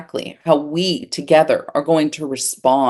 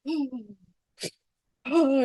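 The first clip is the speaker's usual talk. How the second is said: calmer cold gasps; 7 semitones higher, 8 dB quieter than usual. Retold or imitated. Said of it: "the second minute, I'm more like".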